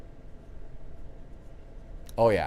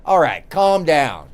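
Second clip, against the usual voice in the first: loving calm down; 5 dB louder, slower than usual. Retold or imitated. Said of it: "someone that loves you says".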